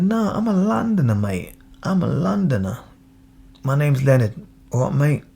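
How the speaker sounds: put-on London geezer greeting; acted Londoner. Acting a proud Londoner's reply.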